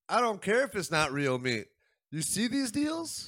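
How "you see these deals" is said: high, slow amazed question; mock excited. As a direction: gush over the deals. Mock excited deal hunter.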